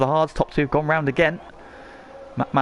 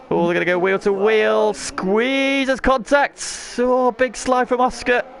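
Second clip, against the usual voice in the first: high, rising excitement; excited commentary; 10 semitones higher, 4 dB louder, slower than usual. Real, not acted. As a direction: voice jumps up at the battle. Wheel to wheel battle for the lead.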